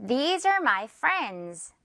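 These are my friends, slowly, with z endings; "These are my friends" slow and clear, buzzing each final s; careful z sounds. Shown as a demonstration. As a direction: model These and friends with voiced z. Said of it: "여기에 Z 발음 주의를 하면서".

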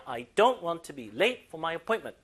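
slow, stress on "don't"; stressed model reading. Shown as a demonstration. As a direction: lean on "don't" for students. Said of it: "강세 주세요".

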